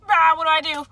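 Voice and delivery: high, loud mock panic; awkward panic. Crush-struck girl asking herself, mock panicked and high. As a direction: squeal it like a flustered schoolgirl. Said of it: "awkward and so, like".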